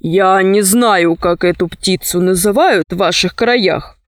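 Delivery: a touch of a low, measured captain; understated low sailor voice; lightly voiced sea captain. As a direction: answer evenly, pitched a little down. Story figure, Sinbad answers.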